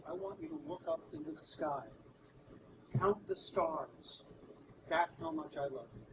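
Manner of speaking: hushed, low romantic sincerity; tender wife. Retold or imitated. Wife tenderly declares her love.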